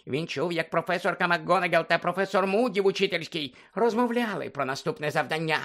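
Dobby the house-elf squeaking at Harry; squeaky house-elf. Acted. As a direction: squeak it like an anxious little elf.

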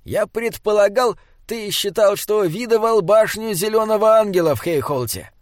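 high-pitched troll voice, querying; questioning troll. A narrator's reading. Troll questioning Simon about the tower, high voice. Narrator plays troll Binabik.

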